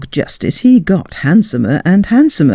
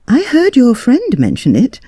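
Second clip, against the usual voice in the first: lady's voice; 8 semitones higher than usual. A narrator's reading. Lady replies.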